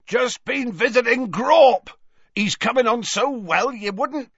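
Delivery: booming friendly groundskeeper; Hagrid voice. A narrator's reading. Cheerful giant Hagrid voice.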